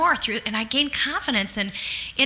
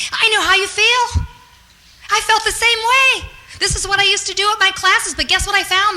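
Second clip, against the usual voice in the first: much higher and louder, gushing reassurance; eager empathy; 8 semitones higher, 4 dB louder than usual. Acted. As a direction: pour it on like a cheerleader to a nervous recruit. Acting out empathy to a recruit.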